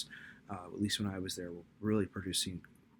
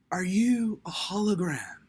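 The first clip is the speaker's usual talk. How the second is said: put-on higher, slow, whispered small kid; child's whisper; 10 semitones higher, 8 dB louder, slower than usual. Mimicking her son asking the President in a tiny whisper. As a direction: ask it in an awed kid's whisper.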